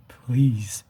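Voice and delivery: a breathless whispered please. Real, not acted. Begging viewers to save their children, whispered. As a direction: beg them under your breath.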